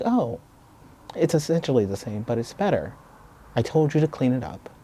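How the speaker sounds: lifted voice, mock-casual justification; dismissive teacher. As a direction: lightly voice a teacher brushing it off. Teacher brushing off the complaint.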